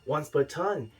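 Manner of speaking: put-on broad Australian accent, hammed up; fake Australian accent. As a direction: play a mock Aussie card-show host. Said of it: "the correct Australian accent".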